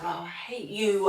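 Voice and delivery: drawn-out mock complaint, not meant; teasing, exaggerated fake dislike; jokey. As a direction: say it slowly as a playful joke. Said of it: "in, like, a jokey".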